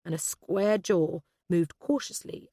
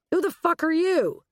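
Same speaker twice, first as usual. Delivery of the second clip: loud, high, hostile demand; raised-voice demand to know who this is; aggressive challenge; 12 semitones higher, 5 dB louder than usual. A narrator's reading. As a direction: challenge a stranger angrily. Agent challenges newly noticed stranger.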